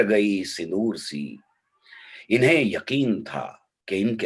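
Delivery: measured, declaimed Urdu nazm; poem recitation. Acted. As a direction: recite verse with weighted pauses between phrases.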